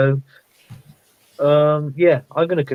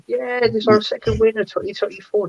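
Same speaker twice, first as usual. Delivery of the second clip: mock excited yell; 9 semitones higher than usual. Teasing a mate over his celebrations, mock excited yell. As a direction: imitate a friend yelling over a win. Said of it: "screaming your head off".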